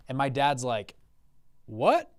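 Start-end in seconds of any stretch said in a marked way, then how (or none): 1.6-2.1 higher, incredulous one-word question; shocked dad. Retold or imitated. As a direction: imitate a dad taken aback. Dad reacts to costly purchase.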